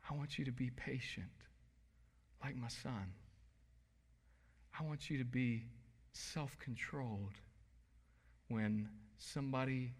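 soft, tender voice of God; God speaking in love. Pretend. God to the struggling believer, softly and tenderly. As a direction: speak gently, like a loving father. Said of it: "And in love, he's trying, he says".

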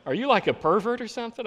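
shocked, mocking disbelief; what, you a pervert?; incredulous retort. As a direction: scold them as if appalled. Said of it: "I say".

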